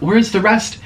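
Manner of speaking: high, puzzled question; high confused Where's the rest. Retold or imitated. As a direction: ask it baffled, searching. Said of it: "I'm like".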